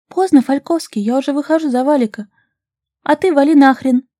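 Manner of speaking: high, loud, spiteful outburst; heated retort. A narrator's reading. Vasilisa snaps back at her pushy suitor, loud and spiteful. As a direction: fling it at him in a fit of spite. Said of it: "В запале и в приступе вредности заявила".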